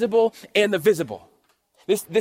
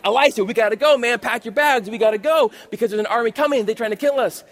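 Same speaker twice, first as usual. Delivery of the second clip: lightly acted panic, a bit raised; mock freaking out; 3 semitones higher than usual. Servant warns Elisha of the coming army, mildly panicked retelling. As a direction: urge him to flee in mild alarm. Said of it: "and he's freaking out".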